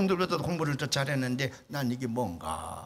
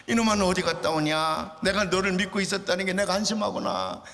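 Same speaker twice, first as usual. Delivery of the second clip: scolding mother; 4 semitones higher than usual. Retold or imitated. Mother scolding late son at the gate, mock angry. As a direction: scold him like a furious mother. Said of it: "마귀가 씌우셨는지".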